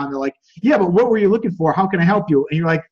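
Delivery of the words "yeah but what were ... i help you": a lightly voiced pushy store clerk; mock pushy salesman pressing you, a touch louder; pushy salesperson. Clerk pressing a browsing customer, mildly pushy. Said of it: "like a pushy salesperson at your".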